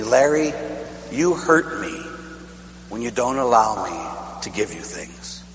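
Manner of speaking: soft, hurt grandmother's voice; a mild hint of a hurt grandmother; hurt grandma. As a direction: let it sink, wounded and quiet. Quoting hurt, crying grandmother.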